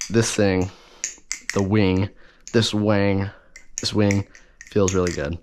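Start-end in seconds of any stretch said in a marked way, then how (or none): 2.5-3.3 "wang" with the vowel stretched in a Southern American accent. Real, not acted. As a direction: toss off "this wang" in a light Southern twang. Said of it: "I don't know why I said wing in, like, a southern accent".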